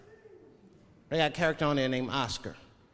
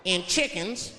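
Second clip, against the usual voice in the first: Southern restaurant man; 2 semitones higher than usual. Retold or imitated. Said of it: "He looked at me like I was crazy".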